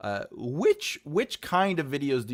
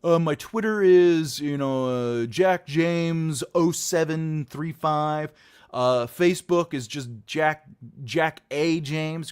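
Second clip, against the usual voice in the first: rambling guest; 3 semitones higher, 6 dB louder, slower than usual. Retold or imitated. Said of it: "the other guests on the show are like".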